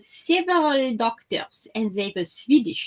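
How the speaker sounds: mashed-up German, French and Swedish accents, muddled. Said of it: "my impression of a German, come French, come Swedish".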